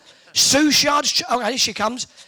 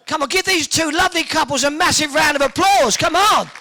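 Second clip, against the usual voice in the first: rally the crowd, full voice; calling out applause; 3 semitones higher, 4 dB louder than usual. Real, not acted. Host rallies the crowd to applaud the couples, calling out. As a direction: call to the whole room for a big round of applause.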